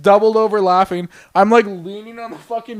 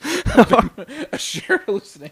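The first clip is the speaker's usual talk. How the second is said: breathless laughing. Real, not acted. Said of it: "I catch my breath from laughing".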